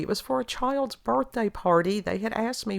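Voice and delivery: ordinary talk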